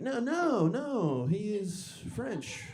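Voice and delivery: high, drawn-out denial; high-pitched mock insistence; stubborn insistence. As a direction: dig in although clearly wrong. Insisting though knowing he's wrong.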